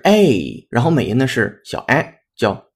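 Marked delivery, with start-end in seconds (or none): 0.0-0.7 British "A", a long, loud, drawn-out "ay"; British vowel. Shown as a demonstration. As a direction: stretch "A" into a full British "ay". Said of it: "英音呢是A".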